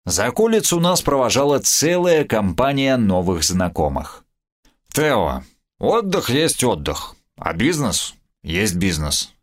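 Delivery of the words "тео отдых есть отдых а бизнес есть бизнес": put-on slow, drunken slurring; tongue tangled with drink; slurred drunk speech. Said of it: "заплетающимся языком".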